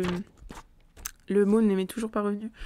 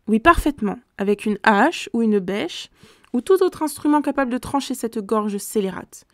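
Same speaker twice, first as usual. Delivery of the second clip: a touch of fury; 5 dB louder than usual. Acted. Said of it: "Le général tremblait de fureur".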